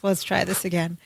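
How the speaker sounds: low, soft, imitated second come-on; Wendy. Woman retrying her pitch on Balky, low and soft. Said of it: "Wendy kind of, like, rolls her eyes".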